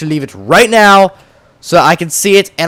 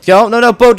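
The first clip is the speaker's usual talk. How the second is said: urgent, higher panicked pleading; anxious pleading; 6 semitones higher, 4 dB louder than usual. Real, not acted. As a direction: beg the boat not to crash. Boat about to crash in game.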